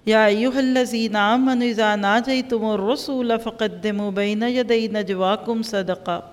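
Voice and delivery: slow, measured Arabic recitation; Qur'an recitation. Acted. Teacher reciting a verse to her class, slow recitation. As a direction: recite the verse deliberately, drawing out the syllables.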